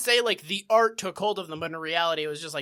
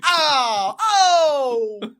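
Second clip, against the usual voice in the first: put-on annoyed teen; 2 semitones higher, 7 dB louder, slower than usual. Loitering kid complaining to Barney, whiny and put-upon. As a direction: whine like a teen who did nothing.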